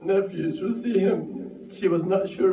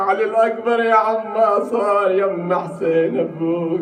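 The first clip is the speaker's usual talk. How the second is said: heartbroken call; 4 semitones higher, 4 dB louder than usual. Acted. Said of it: "من صدع قلبه".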